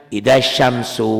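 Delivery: idza syamsu said slowly and hesitantly; wrong hesitant reading. Shown as a demonstration. Teacher showing the hesitant reading to avoid. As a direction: stall on idza syamsu as if unsure.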